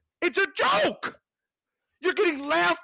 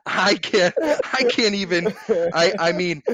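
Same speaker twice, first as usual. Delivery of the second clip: low, loud exasperated laughing; 5 semitones lower, 5 dB louder than usual. Real, not acted. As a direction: laugh it off in disbelief.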